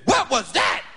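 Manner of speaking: loud startled question; the ego asking, dazed and loud; stunned ego. Pretend.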